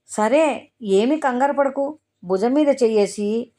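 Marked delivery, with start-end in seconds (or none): 0.1-2.0 higher, lightly voiced friend offering courage; a steadying, encouraging hint of comfort; bravely reassuring. A narrator's reading. Friend comforts the frightened girl, mildly brave and reassuring. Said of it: "గీత ధైర్యంగా చెప్పింది".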